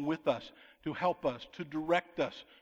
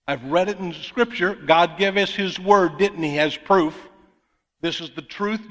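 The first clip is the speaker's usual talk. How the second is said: preaching at full force; 12 dB louder than usual. Real, not acted. Preacher to congregation, voicing faith, loud and fervent. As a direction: belt it out to the back row.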